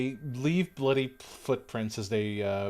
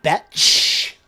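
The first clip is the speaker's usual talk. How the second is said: squeaky insult; 3 semitones higher, 9 dB louder than usual. Acted. Insult in put-on voice.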